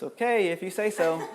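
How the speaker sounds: laughing, unconvinced "okay"; mocking doubt. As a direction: brush it off with a chuckle.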